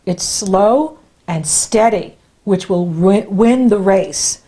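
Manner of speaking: each word drawn out, x0.6; slow, deliberate. Shown as a demonstration. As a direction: spell out the lesson slowly. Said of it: "stressing the advice".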